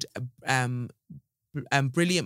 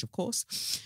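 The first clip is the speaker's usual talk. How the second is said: whispered aside; 5 semitones higher, 8 dB quieter than usual. Retold or imitated. Sly aside in read letter.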